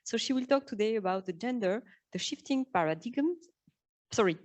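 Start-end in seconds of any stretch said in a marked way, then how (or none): 2.7-3.5 paradigms said as "para-DIG-ums"; French-accented mispronunciation. Real, not acted. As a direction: say paradigms with a hard g and a short i. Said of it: "This is my French accent".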